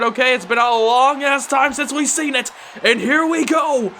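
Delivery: fast, rising wrestling commentary; live play-by-play. Acted. Commentator calling the tag match for viewers, live play-by-play. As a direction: call every move as it happens.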